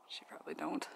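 soft hushed whisper. Real, not acted. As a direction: keep it hushed for the birds. Whispering while filming birds.

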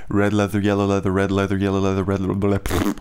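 crisp diction exercise; tongue twister drill. Shown as a demonstration. Practising red leather yellow leather for diction. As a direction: articulate each word of the twister. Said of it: "start doing that stuff again".

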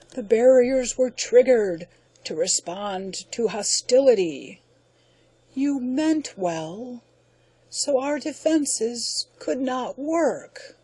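slowing alien voice that fades; dying alien. Acted. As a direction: let it drain away.

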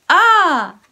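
I called out loud and high; big voice. Shown as a demonstration. Teacher shouting sight words for kids to repeat. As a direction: shout the word out for the class. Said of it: "Big voice".

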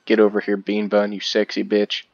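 loud call across the field. Real, not acted. Calling his horse Bean Bun over, loud. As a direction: holler for the horse to come.

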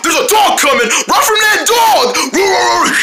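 high, panicky cartoon warning; mock-frightened cry of danger; play-acted alarm. Squirrel warns friends of coming dog, pretend alarm.

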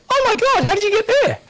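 surprised. Real, not acted. Startled by friend's location.

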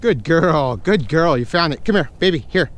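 high, loud squeaky praise; squeaky praising a dog. Real, not acted. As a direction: gush over the dog, high and bright.

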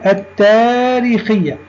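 التاريخية with doubled t and no l; silent lam. Shown as a demonstration. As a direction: say التاريخية as at-taareekhiyya, long aa. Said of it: "كتبنا اللام ولم ننطقها".

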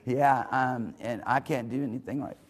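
low, mock self-pitying mope; half-played dejection; sulking. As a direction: grumble it low like a sulker. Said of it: "'cause now you just sulk".

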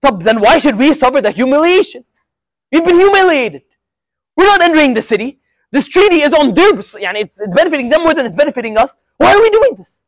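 indignant protest that climbs to a near-cry; imitating an upset companion pleading to be answered; retold anger. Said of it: "And he's mad".

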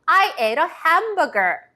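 very slow, clearly spaced sentence; slow model sentence. Shown as a demonstration. Teacher modelling the sentence for kids to repeat aloud. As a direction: say it slowly for repeating. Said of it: "큰 소리로 따라해 보세요".

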